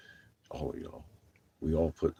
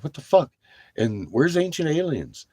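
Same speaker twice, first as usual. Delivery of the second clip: louder, higher fed-up outcry; exasperated outburst; 9 semitones higher, 8 dB louder than usual. Retold or imitated. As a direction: throw it out in loud disbelief. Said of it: "It's like".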